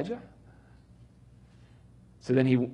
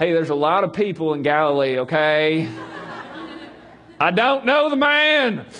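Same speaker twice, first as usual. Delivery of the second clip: loud, laughing, rising panic; nervous denial; 3 semitones higher, 5 dB louder than usual. Acted. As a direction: laugh it off anxiously. Peter denies nervously.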